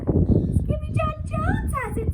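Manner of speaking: high, slow tattling sisters; sisters' voice. Acted.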